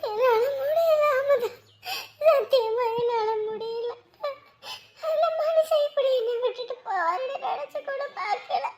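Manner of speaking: weeping widow telling Amudha she can't go on; sobbing. Acted. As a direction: let the grief break the words. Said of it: "அழாதீங்க அக்கா".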